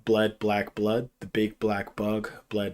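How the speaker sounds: slow, careful tongue twister. Shown as a demonstration. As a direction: spell it out slowly. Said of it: "you're saying it too fast".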